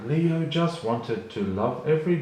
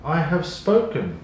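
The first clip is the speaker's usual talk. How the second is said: firm, louder final word; stern mother; 4 semitones higher, 5 dB louder than usual. Acted. A lioness ending the argument with her cub, stern and firm. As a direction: lay down the law as mum. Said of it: "said Leo's mum sternly".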